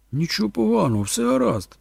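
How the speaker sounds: put-on calm the child down, pitch lifted; soothing. A narrator's reading. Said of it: "заспокоював малого Торн". (заспокійливо)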